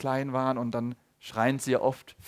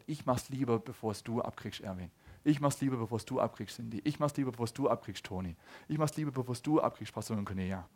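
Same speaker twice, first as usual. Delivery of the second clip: Jesus's tender thought; 5 semitones lower, 7 dB quieter than usual. Retold or imitated. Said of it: "Weil er gedacht hat".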